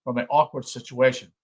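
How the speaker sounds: measured, formal book reading; reading aloud. Acted. Lecturer reading a psychology book to listeners, measured read-aloud. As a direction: read the text out in deliberate phrases.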